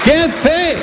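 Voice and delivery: high-pitched mimicked amazement; amazed exclamation. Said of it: "Y la gente decía".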